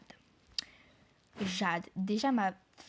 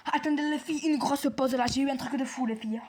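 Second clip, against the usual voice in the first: excited announcement; 3 semitones higher, 3 dB louder than usual. Real, not acted. Announces a lucky game find.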